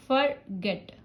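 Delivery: फॉरगेट in two parts, weight on गेट; stress on second syllable. Shown as a demonstration. Teacher testing stress by chin drop, फॉरगेट stressed on गेट. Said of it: "थोड़ा सा नीचे आएगा".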